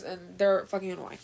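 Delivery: breathless after a rant; panting a little; out of breath. Real, not acted. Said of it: "I'm out of breath".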